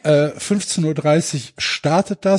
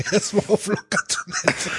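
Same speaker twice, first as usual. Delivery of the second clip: laughing; 3 semitones higher, 3 dB quieter than usual. Real, not acted. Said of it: "repeats it laughing".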